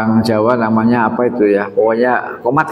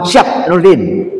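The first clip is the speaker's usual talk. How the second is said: soldier's reply; 3 semitones higher, much slower than usual. Retold or imitated. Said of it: "selalu kalau ditanya, "Siap".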